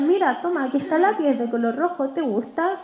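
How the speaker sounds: put-on gentle, inviting voice for a little child; warm and engaging. Shown as a demonstration. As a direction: catch the child's eye and invite them kindly. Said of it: "voy a buscar el contacto visual".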